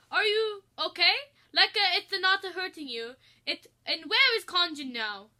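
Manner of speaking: high, loud anxious chef; worried chef. Acted. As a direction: fret over a stuck friend. Chef voiced, concerned.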